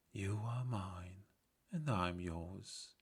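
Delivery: soft, breathy-free whisper of love. Acted. Princess whispering to the prince she just freed. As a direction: whisper it close, tenderly.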